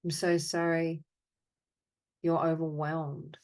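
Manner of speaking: deliberate, evenly spoken phrases with long pauses; guided apology meditation. Acted. Meditation leader answering the group's sadness and anger with measured apologies. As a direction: offer each apology, then leave silence. Offers apologies to participants' named feelings.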